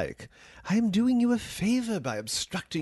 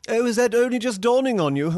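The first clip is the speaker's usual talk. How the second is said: mocking sneer; 8 semitones higher, 5 dB louder, faster than usual. Mocking the user's realization.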